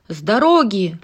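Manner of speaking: loud shout. Acted. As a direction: push through yelling. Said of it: "кричал он".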